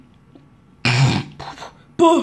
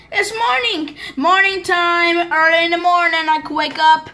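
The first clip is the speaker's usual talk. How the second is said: excited morning cheer; 5 semitones higher, slower than usual. Pretend. Happy morning wake-up.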